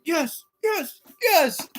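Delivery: gleeful repeated yes; mock triumphant cheer. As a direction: celebrate like you won. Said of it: "That's how it feels when you get done".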